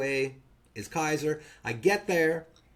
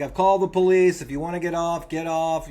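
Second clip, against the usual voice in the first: loudspeaker announcement; 2 semitones higher, 6 dB louder than usual. Retold or imitated. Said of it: "gets on the loudspeaker".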